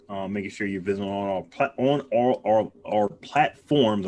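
talking through a full mouth; words mushed round a mouthful; mouth full of goop. Real, not acted. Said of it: "I got all this stuff in my mouth".

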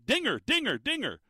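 mock fan's call with high swoops; retold mock yell. Fan hollering for the mascot's attention, mock yell. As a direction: imitate calling out to a mascot without real volume. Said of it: "The guy's screaming".

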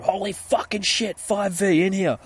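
high, loud call of alarm; alarmed yell. Retold or imitated. Heard from the other room, alarmed shout. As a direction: act out a shocked yell.

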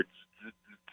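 quick hissed "tz, tz, tz"; short phone-buzz noises made by mouth; imitated phone alerts. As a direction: mimic repeated text notification buzzes. Imitating phone alerts while on air.

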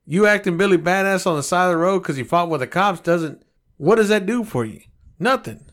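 rant, getting worked up; hot-headed rant. Real, not acted. Ranting at people who fight cops, hot-headed. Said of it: "you're getting a little hot-headed over there".

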